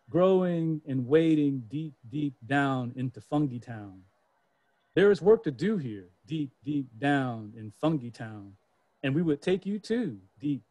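put-on sing-song like kids calling from below; grandchildren's text. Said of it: "They sent me a text message, saying".

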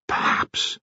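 soft, near-voiceless musing; thinking to himself. A narrator's reading. Colonel alone with a worry, soft private thought. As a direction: think it aloud, barely voiced. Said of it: "the Colonel thought".

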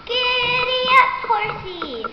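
high, sung-out call to a horse; sing-song urging of the horsey; playful giddy-up. Acted. Rider urges the bunny on, high sing-song call.

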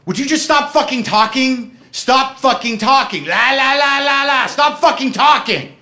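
high, loud mock shriek at him; shrill girlfriend screaming him down; imitating her shrieking. Girlfriend screaming at him to stop talking, high mock shriek. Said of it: "enter the fight with her lines".

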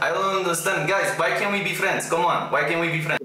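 pleading in a fake Russian accent; put-on Russian accent. Pretend Russian asking hostile strangers to be friends, Russian accent. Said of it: "I put on my best Russian accent".

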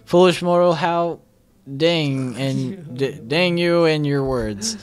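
booming demon lord. Acted. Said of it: "I just have to mimic you".

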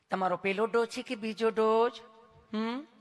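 sweet sing-song nurse questioning; mock-affectionate nurse voice; lovingly asking nurse. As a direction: ask tenderly, then a coaxing hum. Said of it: "તમે કેટલું પ્રેમથી પૂછો છો".

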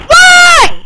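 very high, loud yelp of disbelief; frustrated shriek. Real, not acted. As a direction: squeal it out at the broken game. Game glitch frustration.

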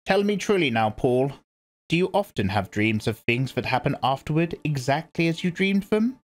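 put-on grave old priestess speaking; stern old Reverend Mother. A narrator's reading. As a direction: lecture her like a severe elder. Old woman urges Paul.

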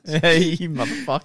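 high, loud and slow, playfully cursing the mates; hammed-up betrayal; mock outrage. Joining the gamer story, mock outraged curse.

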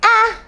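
short open "ah" for the letter A; phonics sound. Shown as a demonstration. Teacher showing kids the sound A makes, a clear "ah". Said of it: "A says".

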